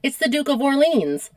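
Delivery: American accent. Shown as a demonstration. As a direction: say it in plain American, Orleans as or-LEENZ. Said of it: "talking in my American accent".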